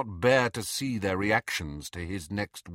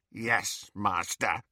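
softer, sullen elf voice; grudging elf; 5 dB quieter, slower than usual. A narrator's reading. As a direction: mutter the answer like a resentful servant.

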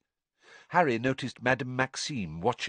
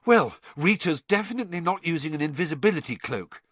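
panting; 9 semitones higher, 4 dB louder than usual. A narrator's reading. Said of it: "Hermione panted".

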